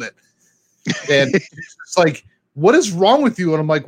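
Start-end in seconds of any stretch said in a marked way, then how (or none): 2.5-3.5 mock-indignant nurse, higher with emphasis; retold scolding. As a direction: imitate an exasperated nurse's scolding, pitched up.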